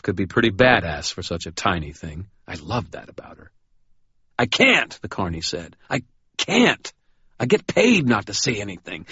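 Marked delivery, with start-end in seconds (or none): 4.4-5.0 high, pleading refusal; scared carney. Acted. Terrified carney pleading with Murphy, high and scared. 5.9-9.1 high, pleading refusal; scared carney. Acted. Terrified carney pleading with Murphy, high and scared.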